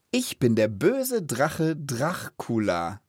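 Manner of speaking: slow, deliberate narrator delivery; storyteller. Shown as a demonstration. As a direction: stretch it out like a tale-teller. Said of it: "Richtig, wie so ein Erzähler". (langsam wie ein Erzähler)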